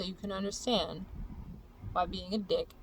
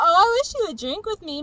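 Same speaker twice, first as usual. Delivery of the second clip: mock whiny friend; 9 semitones higher, 9 dB louder than usual. Mocking friends' plea mid-rant.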